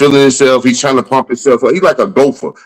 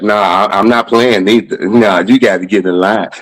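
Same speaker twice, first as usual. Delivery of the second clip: dismissive refusal, lightly imitated; T K Kirkland; 3 semitones lower than usual. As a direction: wave him off in a lower voice. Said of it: "He do talk like that".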